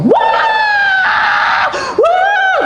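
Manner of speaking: very high, loud wail. Retold or imitated. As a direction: cry out like the wailing woman. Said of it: "tuh apa buanter".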